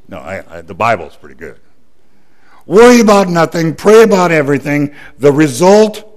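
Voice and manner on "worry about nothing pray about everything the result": louder, higher preaching of the verse; emphatic proclaiming. Acted. Preacher proclaiming the verse to the church, loud and emphatic. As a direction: ring it out to the congregation.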